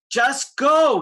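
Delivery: loud urgent command; shouting. A narrator's reading. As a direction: yell it to send them away. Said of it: "he shouted".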